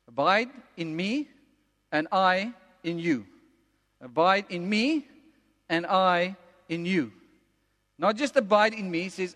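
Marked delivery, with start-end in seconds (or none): 0.1-7.1 slow, measured scripture reading; slow verse with lifted ME, settling on YOU; deliberate repetition. Real, not acted. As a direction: weigh each phrase, pausing between them. Verse repeated slowly for weight.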